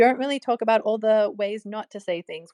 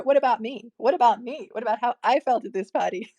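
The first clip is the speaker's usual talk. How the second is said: indignant self-centred protest; 2 semitones higher than usual. Acted. Acting out partner flipping the complaint.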